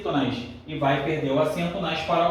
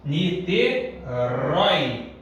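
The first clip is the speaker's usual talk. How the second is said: 1 drawn out; much slower than usual. Shown as a demonstration. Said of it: "teacher drawing out example word".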